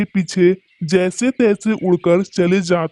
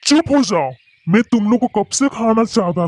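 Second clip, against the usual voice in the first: angry shout; 5 semitones higher than usual. Acted. Crow silences the little bird, angry shout.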